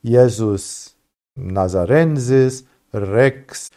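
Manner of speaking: "Jesus Nazarensis Rex" slowly read out in church Latin; Latin title. Shown as a demonstration. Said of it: "In Latin, it would says".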